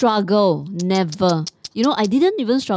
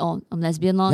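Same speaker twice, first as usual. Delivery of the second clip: ordinary talk, nothing marked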